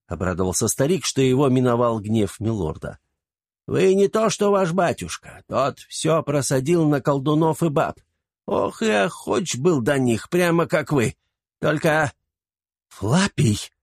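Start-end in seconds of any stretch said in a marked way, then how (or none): 3.7-12.1 put-on high, chatty gossiping old man; gossipy old servant. A narrator's reading. 12.9-13.7 wife cutting off sharply. A narrator's reading. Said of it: "оборвала его жена".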